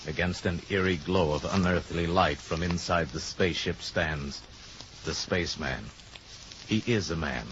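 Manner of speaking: hushed awe. A narrator's reading. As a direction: draw listeners in, almost confiding. Awed narration of spaceman.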